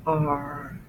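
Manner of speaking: drawn-out "R" with a little trill, not rolled; lengthened, steady "R"; slight trill. Shown as a demonstration. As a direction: hold "R" long without rolling it. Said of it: "not a rolling sound".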